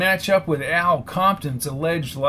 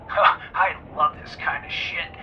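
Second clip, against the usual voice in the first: excited. Acted. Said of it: "said Woody in an excited voice".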